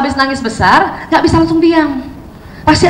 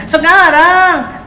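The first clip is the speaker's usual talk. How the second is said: put-on whining child; 2 semitones higher, much slower than usual. Shown as a demonstration. Child insisting.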